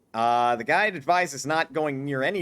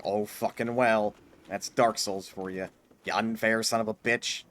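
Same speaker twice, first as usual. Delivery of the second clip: lower, slow weary grumble; resigned shrug; 3 semitones lower than usual. Retold or imitated. Player voicing his own inner resignation at Dark Souls, lower slow resigned grumble. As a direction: let it go with a tired shrug. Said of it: "At the same time, it's like".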